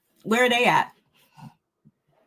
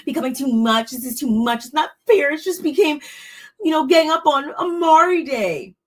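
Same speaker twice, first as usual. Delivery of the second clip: whiny complaining; 4 semitones higher than usual. Retold or imitated. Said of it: "she's like".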